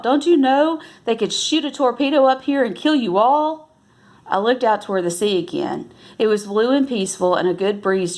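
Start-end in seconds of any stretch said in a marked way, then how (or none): 0.0-3.7 higher, stern warning voice; stern growl. A narrator's reading. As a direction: growl it at the kids like a stern officer. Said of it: "He growled".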